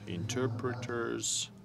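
deliberately slow, pausing after each phrase; measured phrases with gaps left for interpreting; slow, with pauses. Real, not acted. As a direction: speak slowly for the interpreters. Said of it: "I'll try to speak slowly, make pauses".

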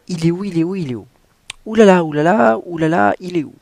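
high, loud panicked searching; frantic character voice. Acted. Reading the book aloud, a high, frantic heroine. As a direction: voice the heroine hunting for her lost tiara. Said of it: "quelqu'un qui bégaye".

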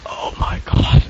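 unvoiced "oh my god"; whispered gasp. Real, not acted. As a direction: whisper it in shock. Breathless after scare.

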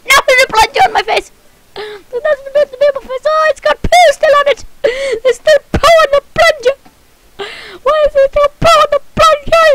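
high, fast whining complaint; grossed-out fast whine; whiny disgust. Real, not acted.

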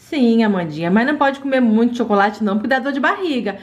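gentle mother voice. Acted. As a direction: talk to the child like a patient mum. Mother voice for the doll.

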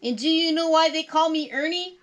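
high, loud puppet voice; Ernie. A narrator's reading. Puppet sets up a joke for Molly, in character. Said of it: "Ernie asked".

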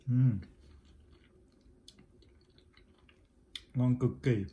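loud happy mmm of delight; delighted tasting. Real, not acted. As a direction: burst out with real delight at the taste. Tasting the sweet peach.

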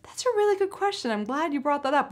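lightly acted gracious answer; polite stalling. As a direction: act pleased to get the question, buying time. Models polite stalling answer for Palin.

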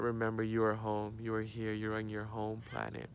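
soft, hushed meditative reassurance; gentle reassurance. Real, not acted. Soothing close of guided meditation.

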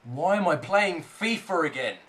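voiced-up complaint with falling tune; exasperated questioning. Real, not acted. Gamer questioning his return to fifa, exasperated. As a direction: ask it aloud in exasperation. Asks again, louder exasperation.

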